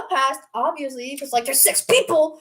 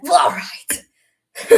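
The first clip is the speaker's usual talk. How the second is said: deflated guy; 8 semitones lower, much slower than usual. Retold or imitated. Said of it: "And he's like".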